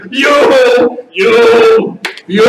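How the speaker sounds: loud, whooping appreciation; hammed-up reaction to a joke; amused reaction. Shown as a demonstration. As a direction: shout it like they just cracked you up. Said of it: "They say something funny".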